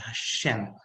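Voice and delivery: slow, pleading plea to God; a hint of tears, dragged out; mild retold crying prayer; retold tearful prayer. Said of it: "I burst into tears and I said".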